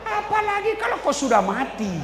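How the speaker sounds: high, loud comic punchline; mock-shouted joke at the wife.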